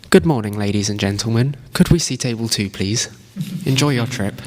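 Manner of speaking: polite cabin announcement voice; lightly playing a flight attendant; air hostess. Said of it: "sounding like an air hostess".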